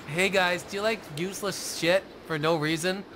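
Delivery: mock commercial pitch; ad read. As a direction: sell it like a TV ad. Mock Loot Crate ad read.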